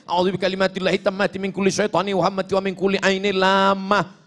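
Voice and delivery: long Arabic prayer recited evenly; recited formula. Shown as a demonstration. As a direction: recite the full prayer steadily. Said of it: "Ada bacaan yang lain".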